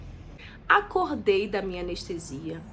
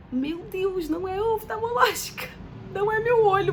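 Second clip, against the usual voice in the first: high, louder panicked exclamation; alarmed; 10 semitones higher, 5 dB louder than usual. Retold or imitated. Patient reads the wrong surgery chart, panicked. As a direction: blurt it out in rising alarm.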